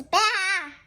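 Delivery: high, loud sheep bleat; storybook sheep chasing someone; sheep's baa. Acted.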